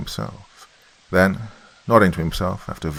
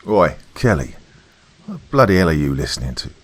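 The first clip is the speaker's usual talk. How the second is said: mildly raised, fast challenge; yelling sergeant; 3 dB louder, faster than usual. A narrator's reading. Sergeant yells at corporal over his headphones, mild yell. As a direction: call him out quickly, half-shouted. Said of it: "yelling at him".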